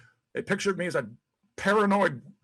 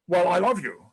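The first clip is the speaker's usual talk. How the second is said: firm, louder heartfelt I love you; said like he means it; 4 dB louder than usual. Shown as a demonstration. Husband proves to his wife he means it, louder and earnest. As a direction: put real weight on love. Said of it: "say it like you mean it".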